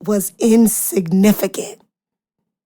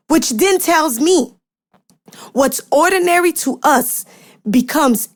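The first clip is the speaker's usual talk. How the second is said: building sermon. Acted. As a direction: preach it with growing fire, phrase by phrase. Preaching climax to congregation.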